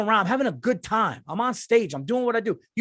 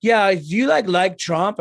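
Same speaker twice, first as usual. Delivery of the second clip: louder mock questioning woman; Australian woman; 2 semitones higher, 7 dB louder, slower than usual. Imitating Australian fan asking about Trump, mock pushy. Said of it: "She's like".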